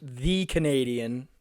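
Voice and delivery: slowly stretched, teasing; slow, drawn out. Acted. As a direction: draw it out, teasing. Jokingly singling out Canadian listener.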